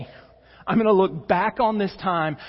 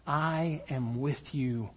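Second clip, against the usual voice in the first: hushed closing promise; 3 semitones lower, 6 dB quieter than usual. Acted. Closing quiet promise quote.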